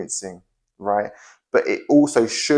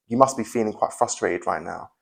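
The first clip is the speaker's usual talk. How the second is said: softer empathy; 4 dB quieter than usual. Shown as a demonstration. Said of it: "reduce the invasiveness".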